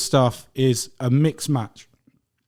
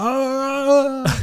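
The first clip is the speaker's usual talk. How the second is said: thrilled mock squeal, much higher and louder; mom's squeal; 5 dB louder than usual. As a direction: squeal like a starstruck fan. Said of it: "She's like".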